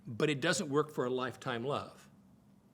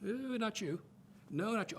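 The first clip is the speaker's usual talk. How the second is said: mock dater turning people down, pitched up; lightly acted "ooh, no thanks" in a raised voice; picky dater rejecting; 5 semitones higher than usual. Dater sizing up candidates against a box, picky rejection. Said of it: "begin to date with that box and go".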